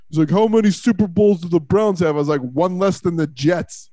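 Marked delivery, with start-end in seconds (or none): 0.3-2.1 put-on light New York accent, taunting; a hint of a New York heckler; New Yorker accent. Retelling a Jets fan taunting Browns fans, light New York accent. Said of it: "I hear a New Yorker". 2.4-3.9 put-on slow New York accent, deadpan; New York comeback. Answering the Jets fan's taunt, slow deadpan New York accent. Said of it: "I hear a New Yorker".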